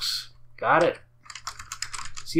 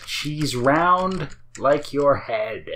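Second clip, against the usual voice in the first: put-on very slow, drawn-out Italian accent; mock Italian accent; much slower than usual. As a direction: draw each word out in a joking Italian accent. Quotes own accent bit once more.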